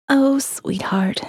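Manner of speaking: breathy amused whisper, slow. Acted. Molly whispers fondly to her lover in bed. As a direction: lean in and whisper it gently.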